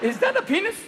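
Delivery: shocked reporter. Acted. Reporter gasps at sprinter.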